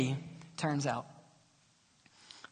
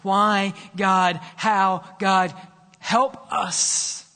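crying out; much slower than usual. Retold or imitated. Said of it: "crying out on behalf of the world".

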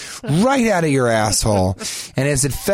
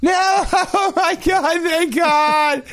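joyful relief. Retold or imitated. Man whose dick reattached, shrieking with joyful relief. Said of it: "screaming would turn to elation and joy".

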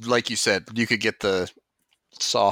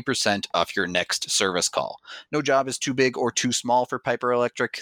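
ad read. Acted. Podcast host reading a local electrician ad, upbeat. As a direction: sell it like a radio spot.

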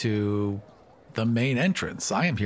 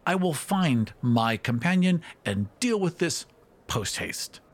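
high hurried fairy voice; 5 semitones higher than usual. Acted. Fairy speaks higher, hurried.

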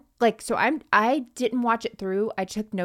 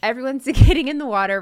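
laughing; 6 semitones higher, 10 dB louder, faster than usual. Real, not acted. Laughing while retelling.

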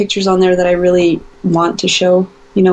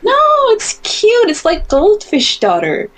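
friend's voice; 14 semitones higher, slower than usual. Retold or imitated. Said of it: "And she was like".

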